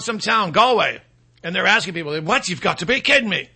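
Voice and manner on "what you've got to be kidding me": lightly put-on, unconvincing Irish accent; bad Irish accent. Galway local reacts to a street question, in a bad Irish accent. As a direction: attempt a poor Irish accent. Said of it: "That's the worst Irish accent I've ever heard".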